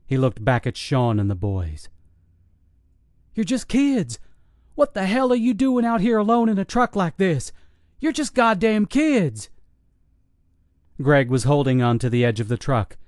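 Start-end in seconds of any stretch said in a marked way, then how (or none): 3.3-9.5 incredulous. Acted. Soldier shocked at the kids.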